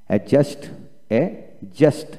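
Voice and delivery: অ্যাডজাস্ট said as "a-just", no d; silent d. Shown as a demonstration. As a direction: drop the d from অ্যাডজাস্ট, teaching it clearly. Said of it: "অ্যাডজাস্ট দিয়ে উচ্চারিত হবে না". (ডি ছাড়া অ্যাডজাস্ট উচ্চারণ)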